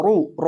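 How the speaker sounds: رو said full and heavy, the ra thick and rounded. Shown as a demonstration. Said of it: "را کو موٹا کریں گے". (را کو موٹا کر کے پڑھیں)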